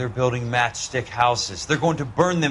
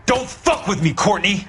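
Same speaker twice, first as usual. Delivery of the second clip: angry; 5 semitones higher than usual. Acted. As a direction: lash out, you're done being lied to. Interrogation turns to confrontation.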